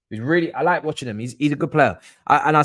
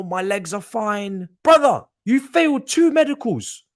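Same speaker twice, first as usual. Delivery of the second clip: much higher and louder, exasperated shouting; real outrage, voice cracking high; furious rant; 7 semitones higher, 4 dB louder than usual. Real, not acted. Streamer blowing up at the failed medical, furious shouting.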